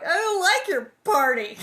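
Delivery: loud, high crying wail; tearful spoiled girl. A narrator's reading. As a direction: sob out the complaint. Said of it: "Nellie cried".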